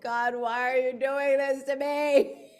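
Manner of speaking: slowed comic prayer of despair; mock exasperated plea. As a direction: pretend to beg God for mercy. Overwhelmed by children's tough questions.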